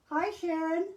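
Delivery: talking around a paintbrush; words muffled by a brush in teeth; paintbrush in mouth. Real, not acted. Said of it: "I have a paintbrush in my mouth".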